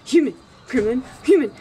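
gremlin and human alternating. Pretend. Alternating, gremlin parts louder.

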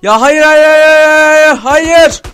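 loud, high repeated cries; desperate shouting. Real, not acted. Gamer watching it go wrong, desperate shouting. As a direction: protest in despair. Something goes wrong in game.

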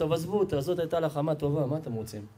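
lightly voiced mother, quiet and falling low; soft mock-resigned aside; mother from the back. Storyteller as a mother excusing the crying woman, quiet aside. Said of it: "אז האמא מאחורה, מה אומרת?".

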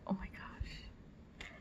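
slow, very soft whisper; stunned whisper. Real, not acted. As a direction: breathe it out slowly in awe. Stunned reaction to unboxed item.

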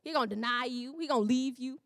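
lightly voiced Satan, quick and casual; breezy slangy Satan, rapid on the threats; casual street-talk Satan. Preacher voicing Satan to God in a light street voice. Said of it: "I don't know why I'm talking like that".

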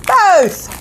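high, bright "Both!"; excited reveal. Acted. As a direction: announce it with glee. Answers own booklet question.

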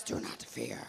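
hushed whisper of God's gentle command; whispered quote. Acted. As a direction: breathe it softly as a reassurance. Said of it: "God says".

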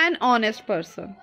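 an honest person said as one chunk, an running into honest; linked an honest. Shown as a demonstration. Teacher shows students linking an honest without a pause. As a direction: run an and honest together. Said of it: "तो हमने क्या बोलना है".

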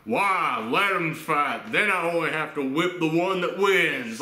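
lightly voiced drunk father; a hint of a drawling drunk dad. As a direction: imitate a drunk dad shrugging it off. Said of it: "this drunk".

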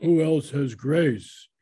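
lightly imitated German accent, drawn out; slow, with a touch of German accent; Peter Drucker. Retelling his idol's reply about grace, slow, hint of German accent. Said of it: "He had this wonderful German accent".

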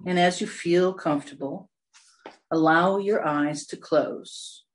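unhurried meditation guidance with long pauses; guided meditation. Real, not acted. Meditation leader settling listeners into a comfortable position, guided meditation. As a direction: ease them gently into stillness.

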